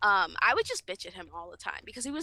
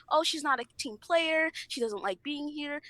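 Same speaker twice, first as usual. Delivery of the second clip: slow, higher mimicry of critics; mocking complaint; 3 semitones higher than usual. People complaining she's no team player, mocking. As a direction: put on a drawn-out, mocking complainer.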